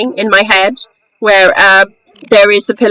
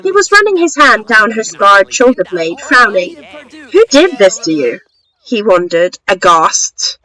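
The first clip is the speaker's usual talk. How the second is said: story narration. Acted. Author reading a short story to listeners, story narration. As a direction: read it as a measured storyteller.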